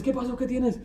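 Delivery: high-pitched imitation of asking what's wrong; concerned questioner. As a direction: ask it high, as if to someone in tears. Husband questioning his crying wife. (pregunta aguda a quien llora)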